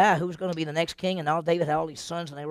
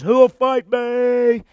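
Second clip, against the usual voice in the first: slow, loud, higher giant's challenge; taunting giant; 8 semitones higher, 14 dB louder, much slower than usual. Acted. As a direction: bellow the challenge across the valley like a huge brute. Giant Goliath taunting the Jews.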